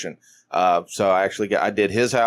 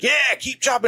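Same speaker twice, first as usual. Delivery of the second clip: high-pitched imitation of an eager player; retold rallying cry; mock gung-ho cheer; 13 semitones higher than usual. Acts out the kicker's cheer.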